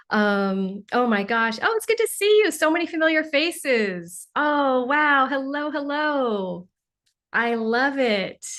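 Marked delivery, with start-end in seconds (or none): 1.6-6.7 light up at familiar faces; excited greeting. Real, not acted. Host greeting viewers in chat, high excited delight.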